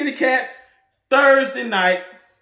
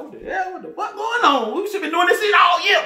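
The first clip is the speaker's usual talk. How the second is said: retold anger; 10 semitones higher than usual. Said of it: "I was mad as hell".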